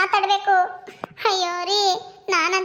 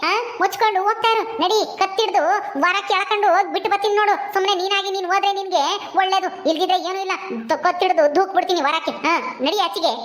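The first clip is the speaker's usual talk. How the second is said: a lightly lowered voice for a harsh mother-in-law, ordering the bride out; scolding mother-in-law. Acted. Mother-in-law orders her son's wife to leave, stern and dismissive.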